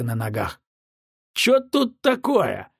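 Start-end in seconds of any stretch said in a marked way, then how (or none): 1.3-2.7 put-on slow, high drunken mumble; mumbled drunk. A narrator's reading. Drunk captain mumbling at the door. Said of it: "промямлил он".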